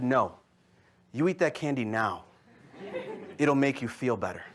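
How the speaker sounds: low, composed imitation of a bossy little sister; calm, in control. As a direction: give a gentle order, unhurried. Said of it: "she was calmer, cooler, and more collected".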